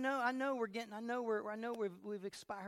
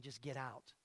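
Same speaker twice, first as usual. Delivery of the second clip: low, softer tempting voice; enemy's voice; 7 semitones lower, 6 dB quieter, slower than usual. Retold or imitated. The enemy tempting the believer, low and soft. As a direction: whisper it like a tempter. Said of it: "the seed of the enemy saying".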